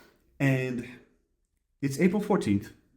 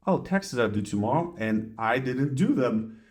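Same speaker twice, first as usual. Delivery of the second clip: calm noticing. Shown as a demonstration. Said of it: "Diffusion would be like".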